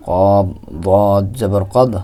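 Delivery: কব, দদ জবর কদ drawn out very slowly; slow letter by letter. Shown as a demonstration. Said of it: "spelling out". (ধীরে ধীরে বানান করে পড়া)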